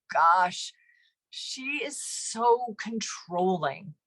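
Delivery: inner resentful thoughts. Shown as a demonstration. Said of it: "the bubble above your head".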